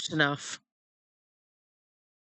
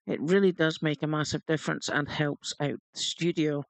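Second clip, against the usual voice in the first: patch notes read. Acted.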